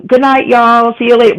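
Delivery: light Southern goodbye; Southern y'all. Retold or imitated. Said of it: "everyone would be like".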